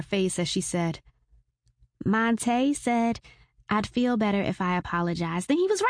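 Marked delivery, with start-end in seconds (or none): 2.0-5.8 daughter voice. Acted. Daughter relieved.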